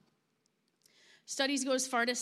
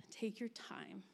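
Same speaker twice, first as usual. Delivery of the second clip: gentle whisper; 2 semitones lower, 6 dB quieter than usual. Pretend. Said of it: "as if God is whispering".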